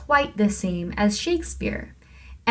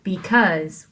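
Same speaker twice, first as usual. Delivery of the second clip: "Because" with stressed CAUSE; iambic stress. Shown as a demonstration. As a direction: lean on the second syllable of "Because". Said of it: "look at that".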